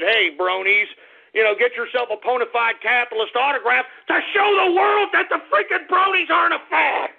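builds to a shout by the end; mocking tweet read. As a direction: read the tweet, then explode on the last words. Reading a fan tweet aloud, building.

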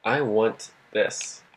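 normal talking voice

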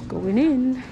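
ordinary talk

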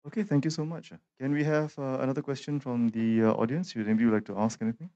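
muffled through a face mask. Real, not acted. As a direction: speak behind a mask. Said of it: "sometimes it's difficult to speak with the mask on".

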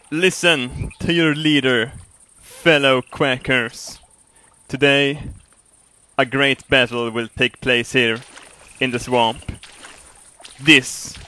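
slow, weighty rallying address; mock leader's speech. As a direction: address the troops like a pompous commander.

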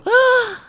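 loud, high sobbing gasp; sudden high wail; mock crying outburst. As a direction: burst into exaggerated ugly crying. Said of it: "Aí eu começo a chorar feio".

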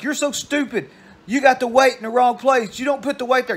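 high-pitched bratty kid imitation; kid screaming back. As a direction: mimic a boy yelling at his mother. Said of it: "he would scream".

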